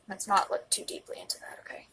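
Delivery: brushing off tears in a whisper; tearful whisper. Real, not acted. Shrugging off own tears to viewers, whispered. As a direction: wave it away, voice barely there. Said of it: "why I'm getting emotional".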